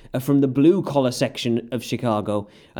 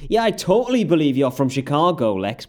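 sarcastic. Retold or imitated. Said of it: "he says really sarcastically to Lex".

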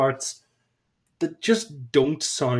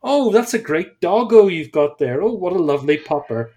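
cooing pet-owner voice, a bit louder; doggo talk; 4 semitones higher, 5 dB louder than usual. Retold or imitated. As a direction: gush over a dog online. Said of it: "internet culture of people saying".

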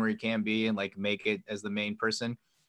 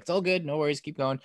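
retold easygoing reassurance, pitched up; higher, casual mock reassurance; nice about it; 5 semitones higher than usual. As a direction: lightly imitate a teacher being nice. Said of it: "like, nice about it".

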